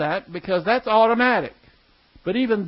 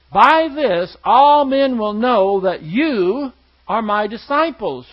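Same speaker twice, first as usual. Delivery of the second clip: solemn verse, building louder on "By this all men"; scripture reading; 3 dB louder than usual. Acted. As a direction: proclaim the words of Jesus.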